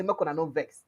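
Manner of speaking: quietly begging them not to be angry; pleading. Retold or imitated. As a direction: coax the angry teachers gently. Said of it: "go fit come begin beg".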